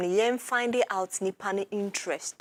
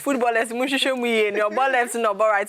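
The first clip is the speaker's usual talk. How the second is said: louder, higher appeal to the coaches; calling out; 3 semitones higher, 4 dB louder than usual. Real, not acted. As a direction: call out to the coaches and footballers like a plea from the studio. Host appeals to football coaches on-air.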